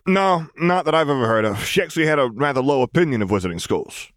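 a hint of the dry secretary; lightly voiced Frank.

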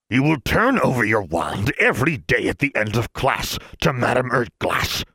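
mild snarl. Acted. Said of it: "with a snarl".

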